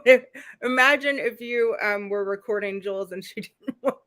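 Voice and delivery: laughing through the words; giggling as she tries to go on; still laughing. Real, not acted. Host still giggling while setting up the Jules joke, laughing. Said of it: "that just tickled me a lot".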